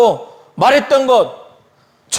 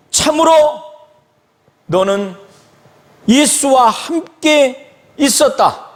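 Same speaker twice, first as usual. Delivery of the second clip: confident assertion; 4 semitones higher than usual. Retold or imitated. A bystander confronts Peter, asserting it confidently. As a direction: state it as a certainty, word by word. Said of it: "장담하면서".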